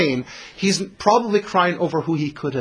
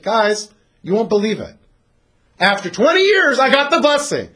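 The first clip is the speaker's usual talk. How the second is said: Esau's triumphant boast; 6 semitones higher, 4 dB louder than usual. Retold or imitated. Esau brags to his family.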